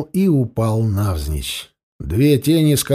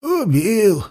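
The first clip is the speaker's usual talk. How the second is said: reluctant; 6 semitones higher than usual. A narrator's reading. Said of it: "нехотя ответил сиплый".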